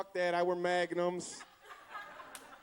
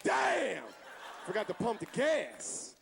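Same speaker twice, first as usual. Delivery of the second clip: surprised; slower than usual. Retold or imitated. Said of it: "you're like".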